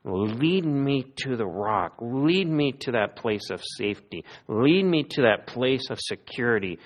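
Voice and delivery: measured, pleading prayer; understated cry to God. Acted. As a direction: plead gently, drawing out each appeal. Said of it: "I'm gonna cry to you now".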